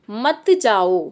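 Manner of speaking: मत जाओ slow as one phrase, falling on जाओ; intonation demo. Shown as a demonstration. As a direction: stretch मत जाओ and let जाओ drop. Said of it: "एक मैं कहूँगी". (मत जाओ धीरे बोलें, जाओ पर सुर नीचे)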